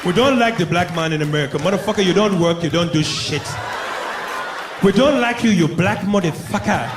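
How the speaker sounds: lightly put-on African accent, scornful; African man. African man telling off a black American, mock-scornful African accent. Acted quote of African men.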